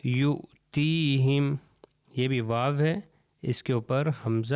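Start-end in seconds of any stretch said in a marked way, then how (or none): 0.0-1.5 یؤتیہم drawn out slowly as yutihim; teacher slowly models یؤتیہم; slow demo reading. Shown as a demonstration. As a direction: carefully model یؤتیہم, waw silent. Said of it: "تو یہ ہو جائے گا".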